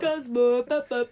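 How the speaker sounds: loud mock Scottish-ish call to a cat; hammed-up bad Scottish neighbor calling his cat. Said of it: "a very good Scottish accent".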